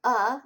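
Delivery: short "A" sounded as the vowel in up. Shown as a demonstration. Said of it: "short U as in up".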